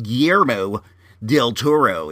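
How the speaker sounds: Guillermo, pause, del Toro, in a put-on accent. Shown as a demonstration. Host showing it's easier this way, accented Guillermo del Toro. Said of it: "if you use an accent like that".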